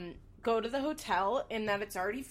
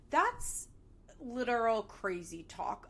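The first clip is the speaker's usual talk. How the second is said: incredulous. Real, not acted. Outraged at crazy talk.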